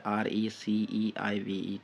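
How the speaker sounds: slow letter-by-letter repeat; spelled out slowly. Shown as a demonstration. Teacher repeats a spelling for memorising, slowly letter by letter.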